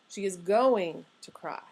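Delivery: going carried as the stressed word; emphasis on going. Shown as a demonstration. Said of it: "That's how most of us would say it".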